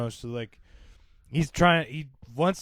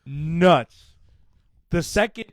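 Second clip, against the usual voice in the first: usual speaking voice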